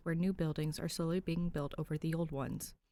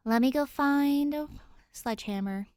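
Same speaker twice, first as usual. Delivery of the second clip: resigned sigh; 9 semitones higher, 7 dB louder than usual. Acted. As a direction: sigh and give in. Danny sighs, resigned.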